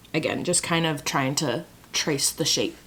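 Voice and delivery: unvoiced concentrating whisper. Real, not acted. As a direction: whisper it while focusing.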